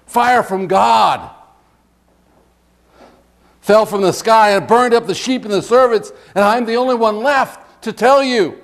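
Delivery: dramatic scripture reading of alarming news; urgent messenger. Acted. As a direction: announce disaster like a breathless herald's report. Messenger reporting disaster in scripture.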